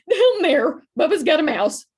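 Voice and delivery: high, loud frantic yell; frantic shout. Acted. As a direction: shout in a panic, pointing. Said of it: "she shouted frantically".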